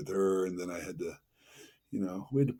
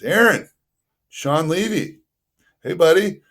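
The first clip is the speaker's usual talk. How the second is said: excited greeting; 6 semitones higher, 10 dB louder than usual. Retold or imitated. Director calls him, cheery greeting.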